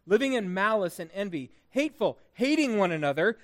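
measured, emphatic reading of scripture. Real, not acted. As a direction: read the verses out phrase by phrase to a congregation. Reads scripture aloud to congregation.

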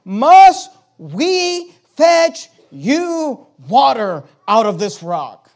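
slow, drawn-out proud demand; mocking Moses, slow and loud; Moses' boast. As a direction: stretch out every word with scorn. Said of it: "He says".

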